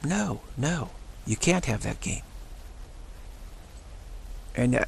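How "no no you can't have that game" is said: higher, mock-firm refusal; father refusing the kid a game, higher and firm; firm dad. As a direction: play the dad shutting it down. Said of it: "to say".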